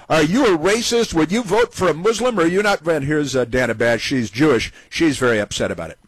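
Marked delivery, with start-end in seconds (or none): 0.1-2.9 mock pollster. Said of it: "and they said".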